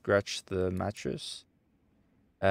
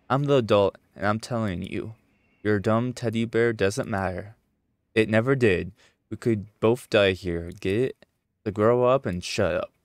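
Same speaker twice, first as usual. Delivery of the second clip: put-on louder, harsh lecture to a child; stern scolding; 4 dB louder than usual. Adult scolds the child about the teddy bear, stern and loud. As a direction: lay down the law.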